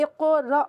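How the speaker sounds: اقرأ with a bouncing "q" and a clipped glottal stop on the final hamza; qalqala on qaf and hamza. Shown as a demonstration. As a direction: echo the qaf, then catch the hamza in اقرأ. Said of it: "قاف بھی کلکلا اور حمزہ بھی". (اقرأ میں قاف پر قلقلہ اور حمزہ کی ادائیگی)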